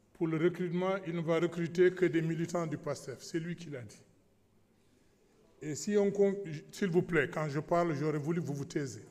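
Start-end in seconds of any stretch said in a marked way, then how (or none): 5.6-9.0 raised voice. Real, not acted. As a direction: raise your voice over the chatter. Asks noisy colleagues for silence.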